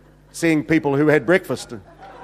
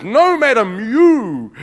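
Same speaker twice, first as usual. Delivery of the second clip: higher, drawn-out mock call; 5 semitones higher, 4 dB louder, much slower than usual. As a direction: call it out, imitating the preacher. Retells healer calling out.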